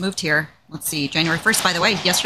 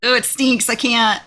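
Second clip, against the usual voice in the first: grossed out, a bit higher and louder; disgusted; 5 semitones higher, 3 dB louder than usual. Real, not acted. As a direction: recoil at the stink. Disgusted by Spam smell.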